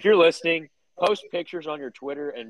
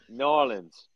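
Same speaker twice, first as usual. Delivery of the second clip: Louisiana accent. Shown as a demonstration. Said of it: "All right, I'll go".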